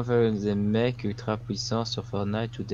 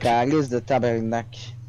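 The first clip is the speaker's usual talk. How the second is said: Quebecois swear; slower than usual. Retold or imitated. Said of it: "imitating Quebec swears".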